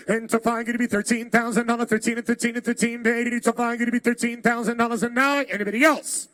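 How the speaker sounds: rhythmic rapid auction chant; auctioneer. Acted. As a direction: rattle off the bids like an auctioneer. Auction chant calling bids.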